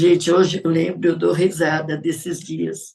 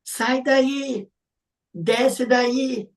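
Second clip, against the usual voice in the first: scolding mother; 5 semitones higher, slower than usual. Retold or imitated. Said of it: "lembra das frases que a mãe dizia".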